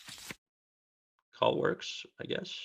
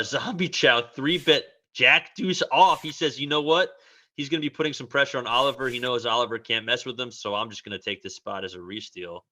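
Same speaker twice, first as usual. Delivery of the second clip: excited; 4 semitones higher than usual. Retold or imitated. Voicing player's thinking, excited.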